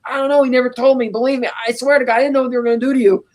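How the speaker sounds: a light imitation of a man begging for his life; mock panicked pleading. Wirtz with a gun on him, mock panicked pleading.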